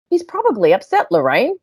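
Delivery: deadpan. Retold or imitated. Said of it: "so deadpan".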